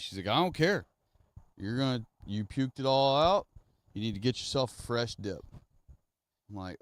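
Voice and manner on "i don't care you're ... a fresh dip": high, loud dismissive mom; stern mom. Retold or imitated. Mom overruling her sick son, loud and dismissive. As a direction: brush off his complaint and command.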